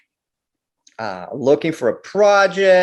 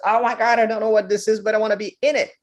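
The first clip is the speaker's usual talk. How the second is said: put-on child's wonder; 5 semitones higher, much faster than usual. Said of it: "I said".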